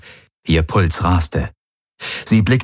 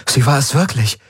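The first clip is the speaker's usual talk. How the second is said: astonished; 6 semitones higher than usual. A narrator's reading. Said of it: "blinzelte erstaunt".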